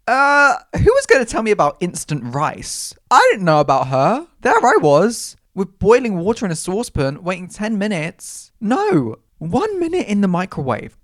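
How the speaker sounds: screaming excitement. Real, not acted. Raving to listeners about instant rice, loud excited squeals. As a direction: shout the discovery as if it changed your life. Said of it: "Oh, I'm screaming".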